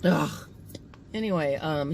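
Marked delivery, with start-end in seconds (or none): 0.0-0.5 rough throat-clearing cough; dry cough. Real, not acted. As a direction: hack to clear an itchy throat. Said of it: "my throat feels like I need to take a fork and scrape it".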